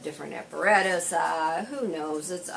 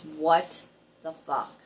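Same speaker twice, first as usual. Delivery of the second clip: retold astonishment. Repair shop guy reacting to the car's story, retold astonishment. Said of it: "was going to fall over".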